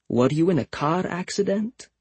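high, far-off Russian masseuse voice; Russian accent. Retold or imitated. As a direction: imitate a blunt Russian masseuse. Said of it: "She did a Russian accent for the woman".

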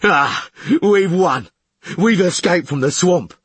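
loud, high victory cry; jubilant call. A narrator's reading. Cobbin announcing escape from the swamp, loud jubilant call. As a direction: cheer the escape aloud. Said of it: "called Cobbin".

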